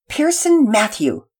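slow warning with the full name; stern full name. Acted. Mother uses middle name.

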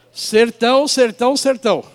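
sertão said three times, loud and rising then falling; emphatic repetition. Real, not acted. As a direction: hammer sertão, sertão, sertão. Stressing remoteness of the place.

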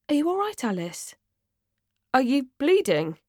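high, gentle questions; kindly. Acted. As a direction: check on a friend with kindly concern. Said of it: "she asks me kindly".

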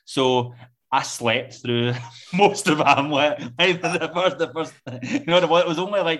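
laughing through the words. Real, not acted. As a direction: chuckle while you say it. Laughing at own story.

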